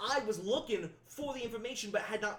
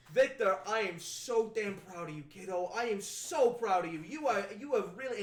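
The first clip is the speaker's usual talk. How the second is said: public show of pride; 5 dB louder than usual. Acted. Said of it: "loud enough that everybody can hear".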